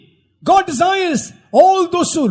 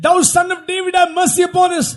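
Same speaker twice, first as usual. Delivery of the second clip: crying out plea; 4 semitones higher than usual. Acted. Interpreter cries out the plea.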